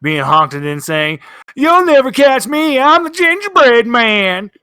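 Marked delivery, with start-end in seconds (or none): 1.5-4.5 high squeaky toy voice; squeaky rubber duck. Acted. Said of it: "what sounds like a rubber duck being honked".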